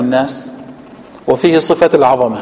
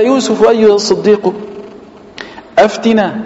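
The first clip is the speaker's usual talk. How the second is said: softening plea; 5 semitones higher than usual. Retold or imitated. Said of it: "ترقيقا لقلبه".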